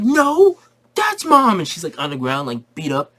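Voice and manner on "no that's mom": put-on squeaky high little kids calling Mommy; kid voices. Kids begging their mom to come see. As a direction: chirp it up high like excited little boys.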